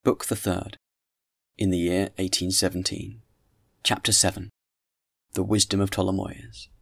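measured audiobook reading; literary narration with deliberate phrasing; story narration. A narrator's reading. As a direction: read the classic novel aloud, clearly paced. Reads the novel aloud.

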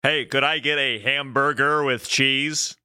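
put-on lightly caricatured American accent; mock American accent. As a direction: play a stereotype American ordering, lightly. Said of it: "I wonder if Canadians do us".

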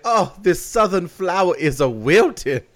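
slow, swooning southern belle; drooping wilting flower. Pretend. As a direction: sigh it out like a fainting belle. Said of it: "I would totally be like".

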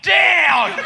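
hammed-up Aussie bloke barking an order; Australian accent. Mocking Australian accent, calling the mob to order. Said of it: "our note taker for this mob of Aussies".

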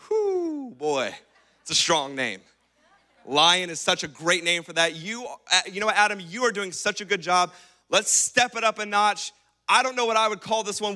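God impressed by the name Lion, laughing praise. Retold or imitated. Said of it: "God's like".

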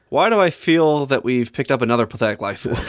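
lightly sassy movie quote; mildly sassy, amused retelling; sassy imitation. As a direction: quote it with a touch of sass. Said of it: "says it in such a sassy way".

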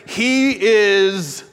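solemn trailer voice; lightly voiced announcer; dramatic reading. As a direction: announce it grandly. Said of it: "then it goes".

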